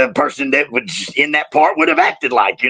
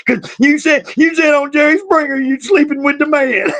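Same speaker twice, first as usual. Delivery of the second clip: imitating crying daughter; 11 semitones higher than usual. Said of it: "she is crying, hysterical".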